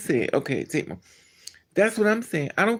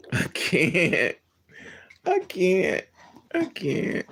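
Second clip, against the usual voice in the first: laughing through the words; can't get it out for laughing; 2 semitones higher, much slower than usual. Real, not acted. Laughing at own crude joke.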